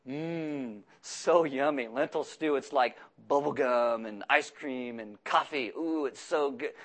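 soft mock relish; sarcastic yum. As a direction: pretend to savor it, sarcastic. Mocking pleasure over lentil stew.

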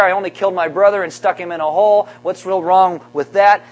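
whiny complaint. Retold or imitated. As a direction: complain like a sulking brother. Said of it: "He's saying that God's not fair".

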